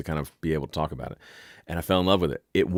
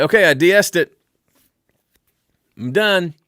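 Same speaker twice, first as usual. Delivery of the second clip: smug mixer voice; 9 semitones higher, 7 dB louder than usual. Retold or imitated. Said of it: "They say".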